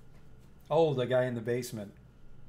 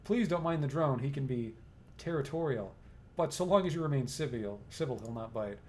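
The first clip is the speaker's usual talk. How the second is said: apologetic. Acted. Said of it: "his tone goes apologetic".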